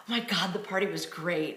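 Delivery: mildly dramatic retold gush; a touch of theatrical delight. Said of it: "I have a flair for the dramatic".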